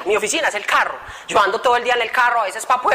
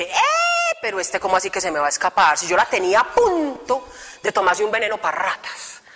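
mock devil voice; 3 semitones lower than usual. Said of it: "una contraparte que dice".

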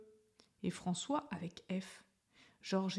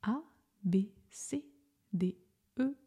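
reciting alphabet. Shown as a demonstration. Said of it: "on le récite ensemble".

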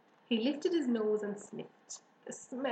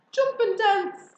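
high, loud, stretched-out call; crowing rooster; 12 semitones higher, 11 dB louder, slower than usual. A narrator's reading. Rooster advising the fleeing pig, loud call. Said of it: "said the rooster".

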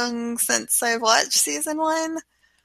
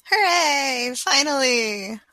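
higher cheer, drawn out at the end; 3 semitones higher, slower than usual. Real, not acted. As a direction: celebrate a long-awaited return, stretching the last word. Co-host cheers the show's return.

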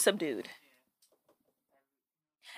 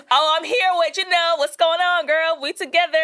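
mock put-on voice; 7 semitones higher than usual. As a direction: play up a showy voice switch. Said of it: "it's one of those voices".

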